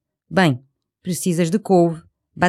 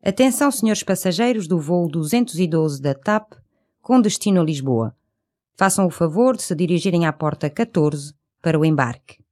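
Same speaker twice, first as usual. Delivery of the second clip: airport announcement. Acted. Airport gate call in lesson.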